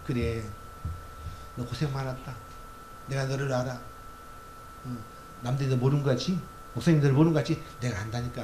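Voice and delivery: soft, reassuring divine voice; God's tender voice. Acted. Preacher as God consoling a weary believer, soft and tender. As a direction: lean in and comfort gently.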